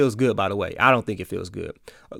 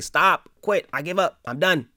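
higher, exasperated mock plea to stop; imagined giving up; 6 semitones higher than usual. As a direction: cry out as if at the end of your rope. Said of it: "I probably would have been like".

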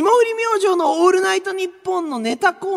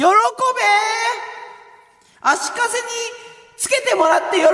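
condescending command; 2 semitones higher than usual. Acted. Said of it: "なんで上から？".

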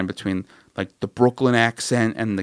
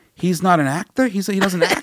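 higher, stunned Brooklyn trainer; disbelieving Brooklyn trainer asking about the dog, higher and amazed; incredulous Brooklyn accent; 8 semitones higher than usual. Retold or imitated. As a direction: play the Brooklyn guy who can't believe it. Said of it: "fat dude from Brooklyn".

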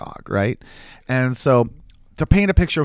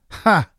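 single short higher "ha"; imitated laugh; 7 semitones higher than usual. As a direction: mimic her one-syllable laugh. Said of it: "And she laughs".

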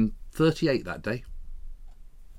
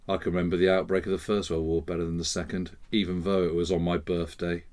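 lugubrious grandmother; 6 semitones lower, 6 dB quieter than usual. Retold or imitated. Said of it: "she had a very lugubrious turn of phrase".

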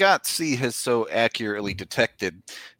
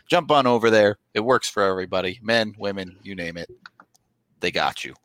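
upbeat podcast ad read. Acted. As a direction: sell it like a host-read ad. Reads Manscaped ad.

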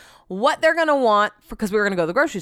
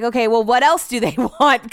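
cracking up; 2 semitones higher, 4 dB louder than usual. Retold or imitated. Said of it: "cracking up".

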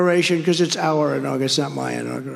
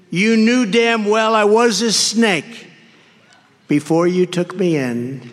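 higher, louder, slow gloating sneer; grinning snake; 4 semitones higher, 4 dB louder than usual. Acted. The snake gloats over the dying woman, slow sneering voice. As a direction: savor the cruelty with a grin. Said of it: "with a grin".

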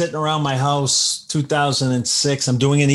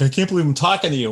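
starstruck echo; 2 semitones higher, much faster than usual. Retold or imitated. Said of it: "And he's like".

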